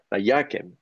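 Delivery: Vayakem with YA stressed, falling on kem; va-YA-kem, accent on the middle syllable; stress moved back. Shown as a demonstration. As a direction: lean on YA in Vayakem, let kem drop. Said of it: "le fait que le ton remonte".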